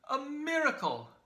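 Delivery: loud high cry of wonder; a loud mock-amazed exclamation; cried out. A narrator's reading. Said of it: "and cried".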